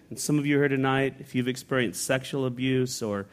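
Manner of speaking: softly comforting abuse survivors; tender. Real, not acted. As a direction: speak softly to those hurting. Consoling abuse victims in congregation.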